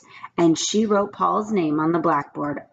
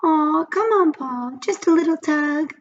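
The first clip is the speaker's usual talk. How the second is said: urging pigtail; 10 semitones higher than usual. A narrator's reading. The pigtail urges Paul in a high squeaky voice. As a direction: wheedle him to do it. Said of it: "urged the pigtail".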